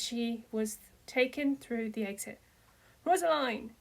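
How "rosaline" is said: high, loud desperate scream of her name. A narrator's reading. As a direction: yell her name as she is dragged away. Father screams as daughter taken.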